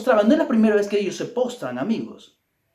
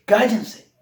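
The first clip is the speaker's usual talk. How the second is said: mild mock yell; 4 semitones higher, 5 dB louder than usual. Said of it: "Dice que les gritaba".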